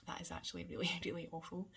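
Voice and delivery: laughing a little through nerves; nervous laugh. Real, not acted. Mother admitting something awful about herself, laughing nervously. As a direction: let a small nervous laugh slip into the words. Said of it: "I'm kinda laughing, but it's through nerves".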